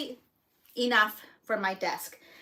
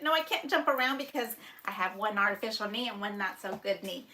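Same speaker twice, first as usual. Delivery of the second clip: normal talking voice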